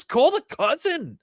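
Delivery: rising mock outrage; hyped demand to call him up; excited call-out. Real, not acted. Mocking the favored team.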